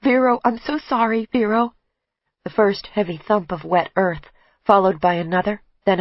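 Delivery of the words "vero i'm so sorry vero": inner scream. Acted. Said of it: "I'm screaming".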